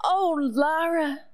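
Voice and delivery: lightly voiced small boy, relieved and slow; son to his sister. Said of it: "and he goes".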